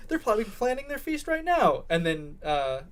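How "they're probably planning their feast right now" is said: high-pitched hammed-up alarm; outraged accusation. Girl sure they're planning their feast, outraged. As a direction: accuse them in a raised, frantic pitch. Acted girlfriend still outraged.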